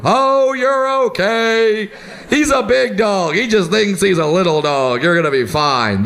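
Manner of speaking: mock soothing, drawn out at first; reassuring dog owner. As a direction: coo it like an unworried dog owner.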